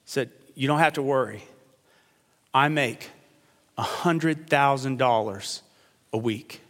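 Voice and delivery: a hint of unbothered calm, lightly voiced; calm and collected. Castaway calmly reassures his panicking shipmate, understated calm. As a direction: play it cool, mildly reassuring. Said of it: "calm, cool, and collected".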